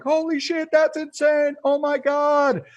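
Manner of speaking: high, excited gasp of disbelief; stunned amazement. Retold or imitated. Everyone stunned by shark ride.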